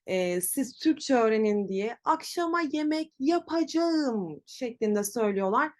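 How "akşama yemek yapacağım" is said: "yapacağım" said in full as ya-pa-ca-ğım, like an over-careful teacher; imitating teachers who say every syllable of "yapacağım"; teacher-style full form. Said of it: "Maalesef bu yanlış bir kullanım".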